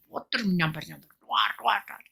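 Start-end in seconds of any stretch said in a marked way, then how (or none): none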